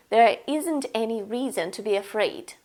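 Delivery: gentle, not persuasive; calmer. Shown as a demonstration. Telling a friend calmly there's no need to fear. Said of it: "Usually you sound calmer".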